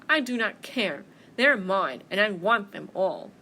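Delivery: loud, emphatic bear; greedy bear. Acted. Bear claiming every apple, loud and greedy. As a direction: punch each claim with greed. Bear refuses mouse's plea.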